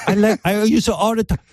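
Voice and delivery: high, quick girl-voice impression; mock ladyboy. Host plays excited ladyboy on setting spray, high mock voice. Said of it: "forgets to use her feminine voice".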